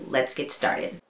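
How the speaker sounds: soft unvoiced whisper. Real, not acted. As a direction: breathe it out in a whisper. Second take after intro.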